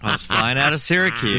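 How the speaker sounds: loud attempt at a New York accent; laboured New York accent. Shown as a demonstration. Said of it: "do the New York accent".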